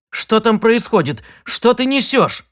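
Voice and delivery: high, insistent questioning; demanding. Acted. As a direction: press her hard for answers. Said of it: "требовательно вопросил Сид".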